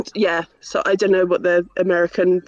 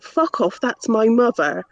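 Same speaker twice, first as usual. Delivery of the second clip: put-on Irish accent; 2 semitones higher than usual. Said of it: "in his Irish accent".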